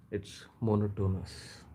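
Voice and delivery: monotonous with stress on the first syllable; Indian-style monotonous. Shown as a demonstration. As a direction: say monotonous as MO-no-to-nous, stress up front. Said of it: "that's how we pronounce it".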